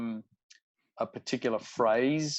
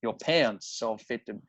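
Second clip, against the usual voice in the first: Cajun accent demo. Shown as a demonstration. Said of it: "I was listening to the accent".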